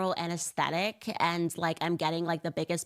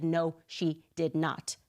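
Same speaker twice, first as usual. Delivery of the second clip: slow disbelief; slower than usual. Retold or imitated. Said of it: "I said".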